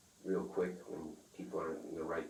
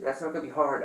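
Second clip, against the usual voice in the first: retold defiant comeback; 8 semitones higher, 7 dB louder than usual. Retold reply to threat.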